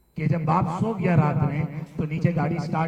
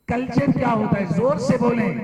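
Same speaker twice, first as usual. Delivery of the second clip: raised, higher-pitched teacher's prompt; calling out to class; 5 semitones higher, 3 dB louder than usual. Real, not acted. Teacher asks students to speak up about culture, calling out. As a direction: push the class for louder answers. Urges students to answer louder.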